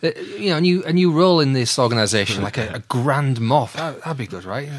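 comic skit of an eager job-seeker; hammed-up pitching underling. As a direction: play an underling floating an idea, voice pushed up. Host acts out Tarkin pitching to Vader.

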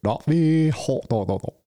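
squeaky high panicked chick babbling hold; frantic little bird begging to wait; dopey little vulture. Retold or imitated. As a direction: youngest chick stammering in panic as he's kicked out. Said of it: "he's like".

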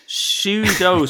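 "shoe dough" as two separate English words, shoe then dough; mispronunciation quoted. Retold or imitated. Host reading out a mocking review, "shoe dough" spelt-out mispronunciation. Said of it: "someone's written, like, shoe".

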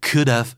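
"could've" with a short final "v" sound; contracted form. Shown as a demonstration. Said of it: "หลายครั้งอาจจะได้ยินว่า".

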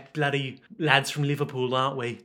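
mock Liverpool accent; a singer's voice. Imitating lads from Liverpool, put-on Scouse accent. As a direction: have a go at Scouse. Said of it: "what's the singer's voice?".

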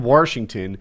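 Washington said as "Warshington"; intrusive R. Retold or imitated. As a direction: slip an R into Washington. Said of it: "They put a crazy R in there".

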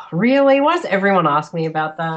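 loud, exasperated disbelief; fed up, not this question again. Real, not acted. Asked about Crocodile Dundee again.

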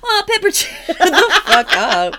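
put-on high, loud laughing Italian accent. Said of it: "doing an Italian accent".

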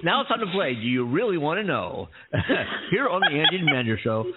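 suspenseful awards presenter. Pretend. Announces mock game segment.

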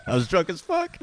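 high laughing confession. Real, not acted. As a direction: admit it through laughter. Laughing over the video.

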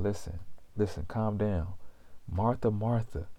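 Jesus calming a worried Martha, quietly soothing; gentle soothing. Acted. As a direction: hush her worry tenderly.

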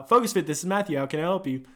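upbeat-pitched gym front-desk phone greeting. Shown as a demonstration. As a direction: answer the gym phone for a demo. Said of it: "That's how I do it".

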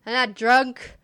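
put-on slurred drunk insisting. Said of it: "So I'm saying this in a drunk voice".

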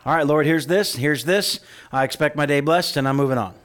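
loud, brisk mock prayer; demanding prayer. Mocking people who hand God a list, loud and curt. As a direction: rattle off requests to God and move on. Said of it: "people do that to God".

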